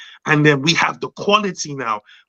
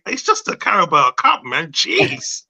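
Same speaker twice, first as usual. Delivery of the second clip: mocking Liverpool players; 3 semitones higher, slower than usual. Mimicking Liverpool players brushing off the loss, mock dismissive. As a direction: brush it off like a sulky rival player. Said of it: "I saw Liverpool players saying".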